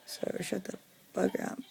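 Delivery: imagined comeback in a whisper; whispered retort. Pretend. Whispering a pretend comeback to the neighbors. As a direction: breathe the insult out with no voice. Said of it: "I'll be like".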